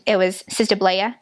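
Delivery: lightly imitated Rhode Island accent. Shown as a demonstration. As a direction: stretch Blair into Blay-uh. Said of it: "but in Rhode Island".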